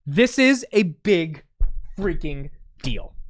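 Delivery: big freaking deal, drawn out slow and punched; slow emphatic verdict. Real, not acted. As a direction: lean hard on each word, slowly.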